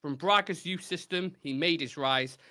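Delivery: measured rhyming recital; recited verse. Acted. Host reciting a rhyming football clue, measured verse delivery. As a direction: read it out like a poem.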